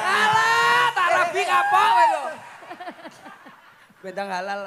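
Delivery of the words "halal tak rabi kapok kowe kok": loud, higher joking yell; playful stage yell; comic shout. Acted. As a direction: shout it out to tease the crowd.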